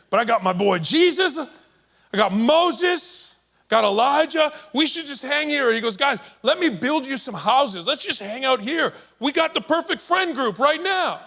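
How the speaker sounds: high, eager, giddy; pumped Peter. Acted. Peter gushing to Jesus about his perfect new crew. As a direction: gush like you found your crew.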